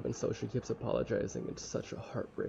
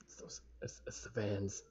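whispered aside; 2 semitones lower, 7 dB quieter than usual. Real, not acted.

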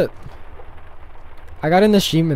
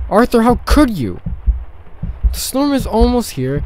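high, loud dramatic dismay; distressed outcry; 5 semitones higher, 6 dB louder than usual. Acted. Wilma reacts to Arthur's one-week deadline, distressed outcry. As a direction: protest it, overwhelmed and louder.

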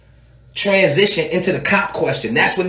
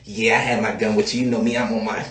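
careless rapper; 9 semitones lower, 4 dB quieter than usual. Retold or imitated. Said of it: "You're like".

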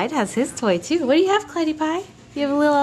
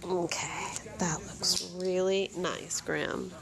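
much softer, lower, slow murmur; soft praise; 4 semitones lower, 12 dB quieter, slower than usual. Real, not acted. Mother photographs her little boy, soft slow praise. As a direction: murmur gentle approval, unhurried.

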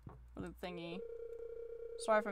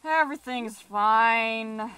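loud, drawn-out insistence; mock acceptance; 7 dB louder, slower than usual. Real, not acted. Player insists the spoiler is okay, mock acceptance. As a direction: stretch it out, loudly unconvinced.

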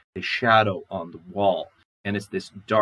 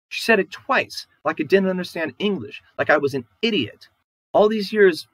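high, loud, aggrieved outburst; wife protests to her husband about his mother, high and loud; upset wife; 7 semitones higher, 8 dB louder than usual. Acted. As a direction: pour out your grievance against him. Wife complains about mother-in-law.

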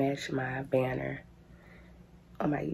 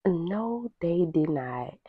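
mock disbelief; 3 semitones higher, slower than usual. Real, not acted. Reacts to the doll's box.

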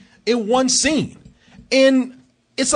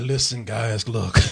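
bored guide; 9 semitones lower, 4 dB quieter, slower than usual. Retold or imitated.

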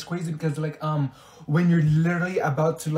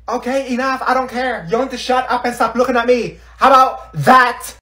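high, loud scolding building to a yell; fed-up shouting, slowing on the last words; angry outburst; 7 semitones higher, 7 dB louder than usual. Acted. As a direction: shut them all up. Ordering others to stop staring.

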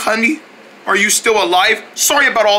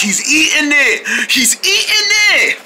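rising to high, excited exclamations; excited astonishment; 6 semitones higher than usual. Acted. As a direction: build your amazement as you watch. Astonished onlooker watches him taste it.

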